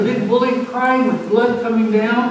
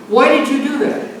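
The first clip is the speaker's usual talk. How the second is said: higher, louder teacher's scold; a touch of a teacher telling off a pupil; mild retold scolding; 5 semitones higher, 4 dB louder than usual.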